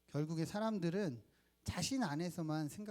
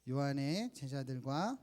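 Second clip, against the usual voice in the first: scripture reading; slower than usual. Acted. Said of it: "같이 한번 읽겠습니다".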